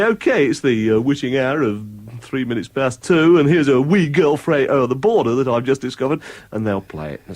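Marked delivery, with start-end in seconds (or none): 0.0-6.2 late-night DJ. Retold or imitated. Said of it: "one of our colleagues will say".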